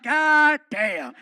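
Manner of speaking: loud high ranting promo; wrestling promo yell. Retold or imitated. Wrestler rants at Fluffy through the bathroom door, loud promo yell. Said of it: "cutting a promo on me".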